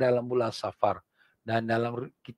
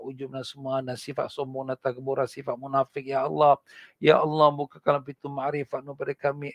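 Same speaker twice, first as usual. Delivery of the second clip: earnest prayer. Acted. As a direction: pray humbly on behalf of all. Leads a closing prayer.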